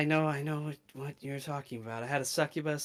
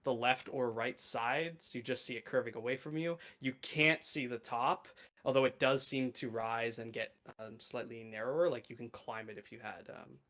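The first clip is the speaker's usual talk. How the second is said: game master narration. Acted. GM describes new plane.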